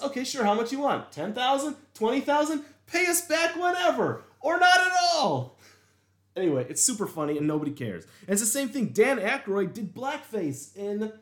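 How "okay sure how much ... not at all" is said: mock white bank manager, pitched much higher; an overeager white banker, climbing ever higher; eager white manager. White manager eagerly offers loan.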